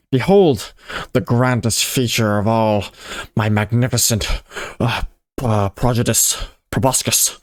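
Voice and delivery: grand nasal creature voice. Acted. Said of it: "I keep losing the nasal".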